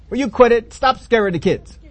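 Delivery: a mom telling dad off; mom scolding. Retold or imitated. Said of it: "you're yelling at the".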